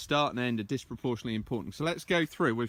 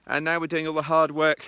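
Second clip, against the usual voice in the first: breathless from the uphill climb; a little winded while walking; out of breath; 3 dB louder than usual. Real, not acted. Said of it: "You can hear I'm out of breath".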